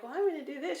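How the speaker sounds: high, loud mock chirpy voice; hammed-up high chirp; imitating her younger self. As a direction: play your naive self, up high. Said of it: "And I was like".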